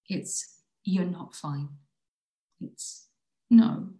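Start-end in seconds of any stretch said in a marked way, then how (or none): 3.5-3.9 loud sudden no; sharp shout. Acted. Acted quarrel inside the poem.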